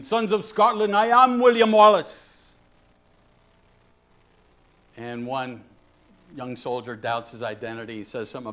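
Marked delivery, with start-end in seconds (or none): 0.0-2.5 rallying cry in a rough Scottish brogue, high and loud; poor Scottish brogue. Acted. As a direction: call out to troops in a mock Scottish accent. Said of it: "Forgive my poor brogue".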